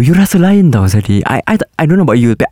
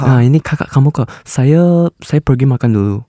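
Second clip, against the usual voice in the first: Chinese Malay accent. Shown as a demonstration. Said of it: "speak like Chinese punya accent".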